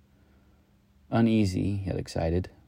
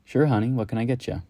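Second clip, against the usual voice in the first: lightly voiced barmaid, higher and louder; a friendly barmaid greeting a regular, a bit higher; cool, sweet bartender charm; 5 semitones higher, 3 dB louder, faster than usual. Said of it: "In her cool, sweet bartender charm".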